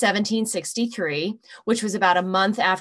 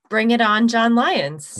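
loud, cocky challenge; 2 semitones higher, 6 dB louder than usual. Real, not acted. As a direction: throw down the gauntlet. Challenging opponent.

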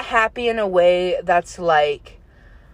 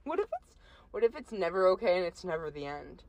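hushed and eerie; 12 dB quieter than usual. Pretend. Spooked philosophical musing.

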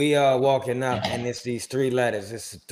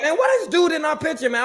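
retold mad outburst. Retelling the photo-bomb story to friends, a mock angry outburst. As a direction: replay your irritation at the stranger, pitched way up. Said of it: "I was so mad".

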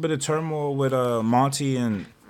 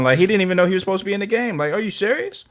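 excited disbelief; 7 semitones higher, 5 dB louder than usual. Real, not acted. Mocking a teammate's lag, excited.

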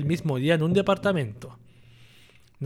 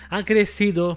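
"ha crecido" said higher and louder, fixing the stumble; emphatic correction; 4 semitones higher, 4 dB louder than usual. Real, not acted. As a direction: push "ha crecido" out clearly after tripping. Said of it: "no puedo hablar".

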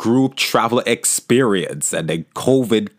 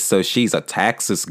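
a faint, tentative Texas accent with a flattened "Texas"; attempted Texas accent; 4 semitones lower than usual. Shown as a demonstration. Host playfully tries a Texas accent about his Houston guest, faint Texas accent. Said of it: "I was trying to put on a Texas accent".

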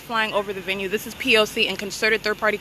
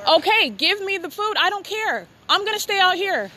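higher, heated and defiant; real defiant anger; 6 semitones higher than usual. Real, not acted. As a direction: snap back, refusing to budge. Arguing with family member.

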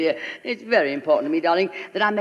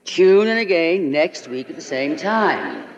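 announcer voice; slower than usual. Retold or imitated. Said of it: "the announcer said".

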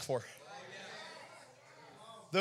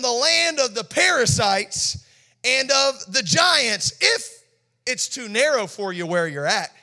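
sarcastic challenge; 2 semitones higher than usual. Acted. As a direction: dare them, mocking their size. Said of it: "There's some sarcasm here".

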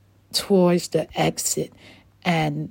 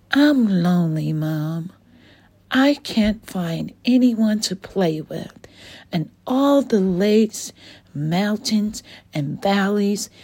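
put-on lonely young Dylan; 3 semitones higher than usual. Dylan telling Mama Dragon he is lonely, mild forlorn. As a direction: complain to mom that nobody plays with you.

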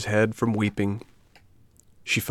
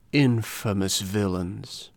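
slow, put-on cat voice; indignant cat; slower than usual. A narrator's reading. Cat echoing the fox, slow indignant voice. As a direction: echo the outrage, drawn out. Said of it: "repeated the cat".

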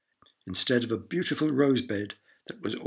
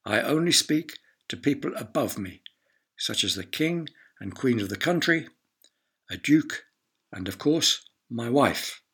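lofty, raised voice; haughty lord; 3 semitones higher than usual. Acted. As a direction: speak down to everyone. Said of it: "announced the lord".

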